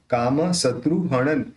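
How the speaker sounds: हणन ending in a clear n; न उच्चारण. Shown as a demonstration. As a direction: end हणन on n, lips open. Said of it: "उसका न आएगा". (हणन के अंत में न की ध्वनि)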